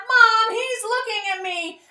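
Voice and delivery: high whiny tattle; whiny tattling little sibling. Acted. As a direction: whine it like a tattling kid. Children tattle in story.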